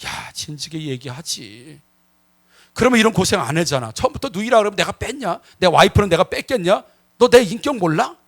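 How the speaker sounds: softly spoken. Acted. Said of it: "아주 부드럽게 이야기합니다".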